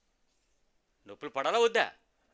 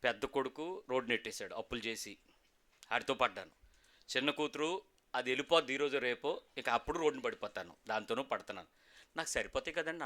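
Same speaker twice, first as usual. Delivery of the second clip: complaining church member; 6 semitones lower, 8 dB quieter than usual. Retold or imitated. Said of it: "ఒక ఆయన అడుగుతాడు".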